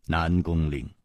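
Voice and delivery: low, soft, sorrowful name-call; sighing. Acted. Hero addresses his treacherous friend, sighing. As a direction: sigh the name out quietly. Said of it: "仰天叹道".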